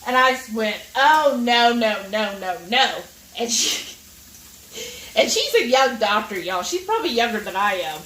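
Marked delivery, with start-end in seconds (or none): 0.9-3.0 emphatic protest. Retold or imitated. Patient objecting to doctor's plant-based advice, emphatic protest. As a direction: cut them off with a run of refusals.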